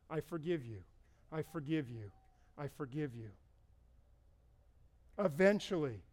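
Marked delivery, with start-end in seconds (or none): 0.1-3.3 much softer, each one falling gently; soft repeated forgiveness. Retold or imitated. Jim releasing his hurt, murmuring soft repeated forgiveness. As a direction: repeat it softly like a quiet mantra.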